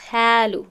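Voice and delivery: thin light قالو, the wrong way; قالو said without the heavy vowel; light qaf. Shown as a demonstration.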